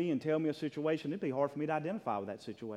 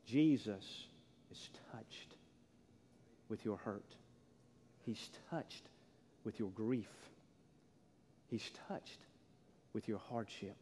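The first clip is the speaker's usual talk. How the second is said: whispered, much softer; whispered emphasis; 4 semitones lower, 9 dB quieter, slower than usual. Acted. Pastor whispering comfort to church. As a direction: hush it to a breath.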